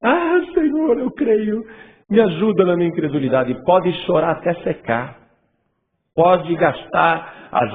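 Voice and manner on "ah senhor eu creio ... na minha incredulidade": mock crying plea. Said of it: "Chorar não é sinal de fé".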